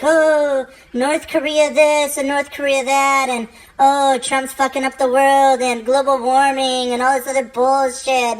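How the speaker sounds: high, whiny mock panic; whiny everyone. People fretting over the news, high whiny mock panic. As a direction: whine about the news like everyone does. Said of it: "everyone's like".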